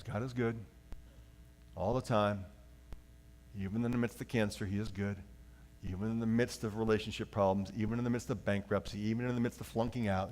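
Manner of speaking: soft, quiet earnest reassurance; sincere reminder. Shown as a demonstration. Pastor showing the sincere way, quiet and earnest. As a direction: remind yourself gently in hard times. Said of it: "we remind ourselves".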